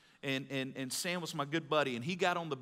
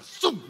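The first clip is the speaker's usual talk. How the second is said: loud mimicked whoosh of a falling weight; imitated crash; 9 semitones higher, 8 dB louder than usual. Preacher showing the bar dropping on his chest, loud imitated whoosh. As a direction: punch out a sudden, loud drop noise.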